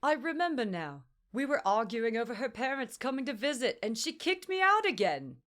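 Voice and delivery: high, loud rueful retelling; excited recollection. A narrator's reading. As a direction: blurt out the memory. Stranger excitedly recalls argument.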